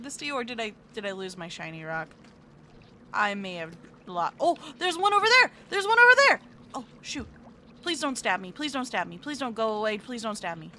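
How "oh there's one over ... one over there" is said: louder, higher excited spotting. Real, not acted. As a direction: point it out eagerly.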